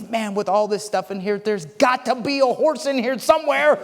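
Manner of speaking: put-on eager kid, climbing to a high finish; excited optimistic boy. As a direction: build hopeful excitement toward the punchline. Optimist boy's joke punchline, acted.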